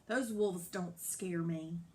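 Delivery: out of breath, talking tough; panting through brave words. Acted. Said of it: "the cow panted".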